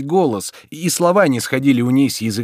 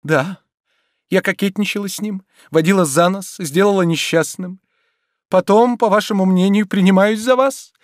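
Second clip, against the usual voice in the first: restrained hurt; 9 semitones higher, 4 dB louder than usual. A narrator's reading. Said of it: "сдержанным голосом".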